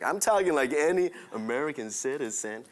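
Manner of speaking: put-on, stiff American English; robotic American accent. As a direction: imitate an ordinary American, badly faked. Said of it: "Why are you talking like that?".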